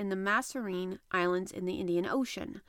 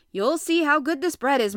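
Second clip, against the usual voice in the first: loud, higher, hearty assurance; eager promise; 6 semitones higher, 10 dB louder than usual. A narrator's reading. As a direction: proudly talk up your cooking. Ned promises good bread while cooking.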